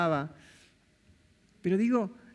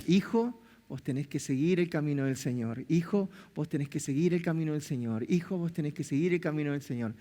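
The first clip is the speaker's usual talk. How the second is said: nagging mother; 3 semitones lower than usual. Retold or imitated. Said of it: "esas mamás que machacan y machacan".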